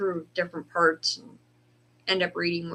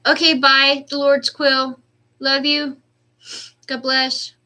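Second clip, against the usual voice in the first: bright excited goodbye; 7 semitones higher, 9 dB louder than usual. Real, not acted. Cheerful goodbye to a viewer.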